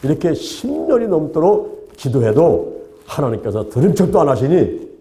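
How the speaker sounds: mildly aggrieved questions in prayer; complaining to God. Retold or imitated. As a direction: lightly act out a grumbling, exasperated prayer. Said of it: "막 불평을 하면서".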